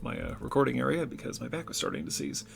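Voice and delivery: squatting on the floor; cramped squat with sore back; in a deep squat. Real, not acted. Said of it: "I'm now squatting on the floor".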